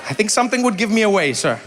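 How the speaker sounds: fast, laughing through the words. Real, not acted. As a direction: laugh at the idea of passing as a local. Joking she'd be caught out.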